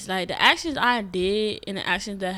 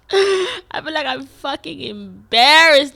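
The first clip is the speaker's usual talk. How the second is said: embarrassed outburst; 7 semitones higher, 10 dB louder, slower than usual. Real, not acted.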